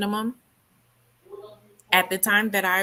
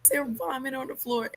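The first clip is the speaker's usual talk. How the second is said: pitched-up imitation of screaming; retold scream; 7 semitones higher, 4 dB quieter than usual. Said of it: "screamed out, like".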